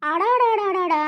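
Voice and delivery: scoffing, drawn-out string of syllables; mocking exclamation. Aunt scoffing at nephew's excuse, mocking. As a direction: jeer at the excuse in one rolling exclamation.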